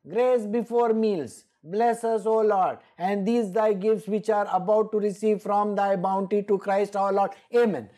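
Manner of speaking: clear, measured recital of the grace; proper prayer recital. Shown as a demonstration. Preacher showing how to say grace before meals, clearly recited. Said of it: "Say the prayer properly".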